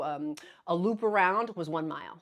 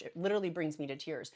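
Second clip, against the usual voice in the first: quieter, weight on literally; soft and moved. Real, not acted. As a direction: let the feeling sink in softly.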